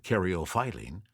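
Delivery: caryophyllene in its alternate pronunciation. Shown as a demonstration. Presenter throws out the other version of caryophyllene, alternate pronunciation. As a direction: give the other way of saying caryophyllene. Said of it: "I have also heard an alternate pronunciation".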